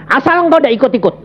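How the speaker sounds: high, fast bargaining; quick pleading retort. Retold or imitated. Young man bargaining with God, high and fast. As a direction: rattle it off as a cheeky plea. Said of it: "Aku bilang".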